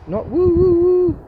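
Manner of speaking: high, loud hammed-up whooping; mock war whoop. Ranting about politics, mocks a war whoop with a high loud hammed-up cry. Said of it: "an Indian-style stance".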